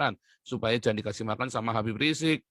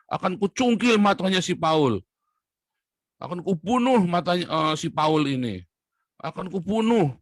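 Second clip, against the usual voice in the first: threatening quote; 5 semitones higher, 4 dB louder than usual. Retold or imitated. Quoting a preacher's televised threat.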